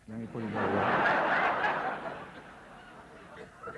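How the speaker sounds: slow, laughing through the line. Real, not acted. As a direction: chuckle it out knowingly. Coy wink about wedding night.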